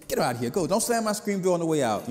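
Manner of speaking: gruff mama. Retold or imitated. Mother voiced in a story.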